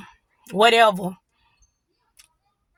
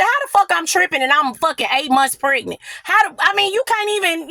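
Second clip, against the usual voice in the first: higher-pitched, indignant comeback; mock-outraged protest, pitched up; indignant retort; 5 semitones higher than usual. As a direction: act out an incredulous argument. Retold quarrel with partner.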